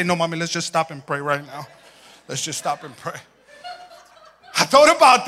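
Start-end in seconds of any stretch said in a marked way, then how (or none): 0.0-3.2 meek plea. Retold or imitated. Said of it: "you say".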